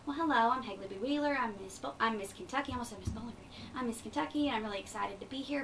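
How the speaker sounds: neat, careful pageant-queen hello; polished competition voice. Shown as a demonstration. Miss Kentucky introducing herself to judges, polished and proper. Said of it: "a concept called code switching".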